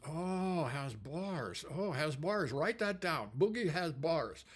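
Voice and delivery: lightly imitated Japanese accent; note it down in a mock Japanese accent; Japanese engineer. Engineer mishearing and taking notes, imitated Japanese accent. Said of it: "the Japanese engineer says".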